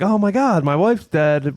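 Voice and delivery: mock him panicking about his wife; mock O J panic. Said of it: "He's like".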